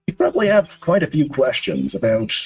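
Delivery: lightly voiced, measured old host; kindly older man. Old man addressing a puzzled visitor, lightly acted, measured. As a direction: take your time, pausing between thoughts.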